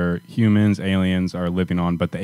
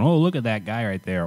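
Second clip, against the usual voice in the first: white voice; 3 dB quieter than usual. Acted. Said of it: "Did you just put the white voice".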